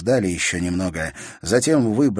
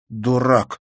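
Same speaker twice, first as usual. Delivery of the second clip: through gritted teeth; 5 semitones higher, 5 dB louder than usual. A narrator's reading. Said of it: "процедила сквозь зубы девочка".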